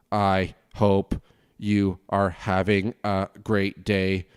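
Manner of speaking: very slow, stiff robot-like news read; robotic newsreader. Shown as a demonstration. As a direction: drone it out like a robot reading the news. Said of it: "constant robotics".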